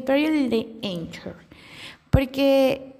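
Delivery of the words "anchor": "Anchor" with the A said like "ay"; English A. Shown as a demonstration. Podcaster settling on a pronunciation, "Anchor" with English "ay". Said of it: "ya saben cómo suena la A en inglés".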